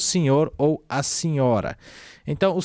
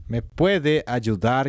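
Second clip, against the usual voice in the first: Me puede ayudar said slowly, stress on puede; slowly fix it to me puede ayudar; slow correction; 3 semitones lower, slower than usual. Shown as a demonstration. Teacher correcting the sentence slowly for students. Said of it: "teria que ser me puede ayudar".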